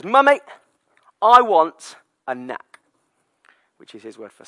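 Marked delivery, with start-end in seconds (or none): 0.0-2.8 put-on higher, louder, slow toddler demand. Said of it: "he says".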